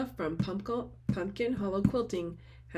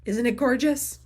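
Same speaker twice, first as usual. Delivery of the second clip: louder, higher whispered gush; excited whisper; 4 semitones higher, 8 dB louder than usual. Real, not acted. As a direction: whisper it but let the thrill burst out. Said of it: "Sorry, I'm freaking out".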